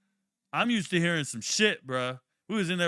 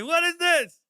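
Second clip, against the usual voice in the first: much higher, louder disbelieving shout; outraged yell; 6 dB louder, slower than usual. Retold or imitated. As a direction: demand an answer in outrage. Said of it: "I say".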